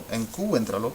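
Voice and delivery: "encuéntralo" said en-CU-en-tra-lo, u as its own stressed syllable; broken diphthong, wrongly stressed. Shown as a demonstration. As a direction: break ue apart in "encuéntralo", stressing U. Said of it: "we don't wanna say".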